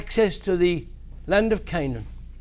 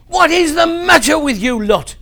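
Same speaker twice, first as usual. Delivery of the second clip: shouted, higher and louder angry rebuke; furious; 7 semitones higher, 7 dB louder than usual. Acted. Moses shouting furiously at the complaining people. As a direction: Moses exploding at the grumbling people. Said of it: "He was furious with the people".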